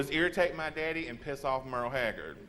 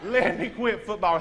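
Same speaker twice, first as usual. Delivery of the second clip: mock crying plea; 3 semitones higher than usual. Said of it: "I went crying to my mom".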